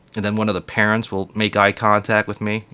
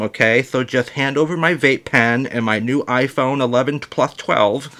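put-on bratty kid voice. Voicing bratty kid again.

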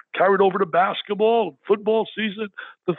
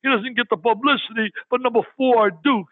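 retold uncle's yell; 4 semitones higher than usual. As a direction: fire back at the other uncle like it's obvious. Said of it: "my other uncle would scream".

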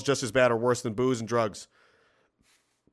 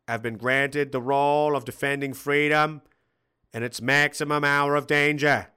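put-on JFK accent. Streamer reads a donor's quote to chat in a light JFK accent. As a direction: read it like a JFK speech, lightly hammed. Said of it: "in J F K's accent".

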